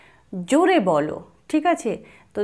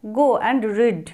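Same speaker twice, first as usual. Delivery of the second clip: slow model phrase; much slower than usual. Shown as a demonstration. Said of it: "model English phrase".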